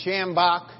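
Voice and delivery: "Shambach" with the weight on "Sham"; stress on first syllable. Shown as a demonstration. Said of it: "emphasis on the first syllable".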